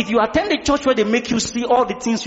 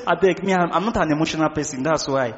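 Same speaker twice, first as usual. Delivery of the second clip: unemotional churchgoer; 5 semitones lower than usual. Acted. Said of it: "Somebody said".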